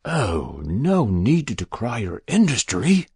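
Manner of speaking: easy, untroubled stranger with a smile. Acted. Stranger reassuring Jabez about his farm, very easy. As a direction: wave the modesty away lightly. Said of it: "very easy".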